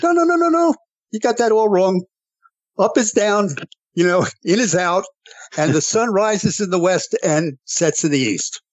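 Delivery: high, scoffing mock voice that fades. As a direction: parody the judges, high and dismissive. Mocking the court's ruling.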